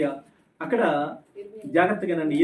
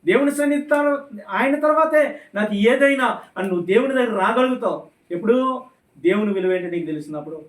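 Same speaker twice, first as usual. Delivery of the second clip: raised, forceful preacher's voice; fervent preaching; 3 semitones higher than usual. Real, not acted. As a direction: press the congregation with urgent questions. (ఉత్సాహభరిత ప్రసంగ స్వరం)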